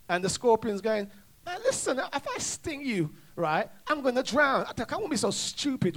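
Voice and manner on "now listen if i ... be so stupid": higher-pitched, coaxing scorpion; lightly acted persuasion. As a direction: lightly plead your case in a raised pitch. Scorpion persuades the wary frog.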